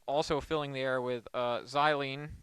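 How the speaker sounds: talking while holding breath; holding breath while speaking. Real, not acted. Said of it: "I'm holding my breath in case you can't tell".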